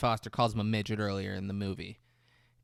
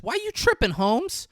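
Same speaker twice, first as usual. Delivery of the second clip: mock street slang; 12 semitones higher, 5 dB louder than usual. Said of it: "Comes up and says".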